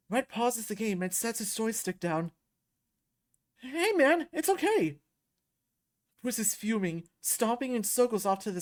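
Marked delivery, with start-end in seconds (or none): 3.6-5.0 anxious reassurance. Acted. Red reassures upset Bruce.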